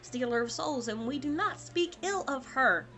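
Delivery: quiet, reverent list of titles; hushed ominous. Acted. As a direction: speak of her in hushed awe.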